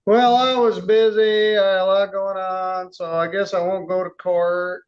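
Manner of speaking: sarcastic parody of a lame excuse; mock the excuse with heavy sarcasm; sarcastic mocking imitation. Judge parodies defendant's excuse.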